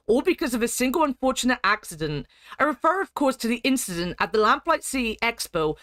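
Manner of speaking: put-on formal read-aloud of an old letter; dramatic lore reading. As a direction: read it like a grand political speech. Reads game lore letter aloud.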